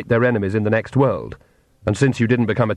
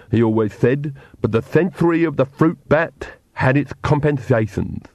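Igor; 3 semitones higher than usual. Acted. Igor speaks.

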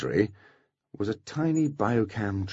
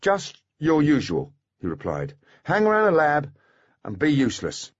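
teasing; 7 semitones higher than usual. Acted. Foley teases Maine.

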